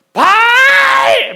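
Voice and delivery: long, stretched, very high shout; frantic shout. Acted. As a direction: wail the name with all your lungs. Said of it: "막 이렇게 막".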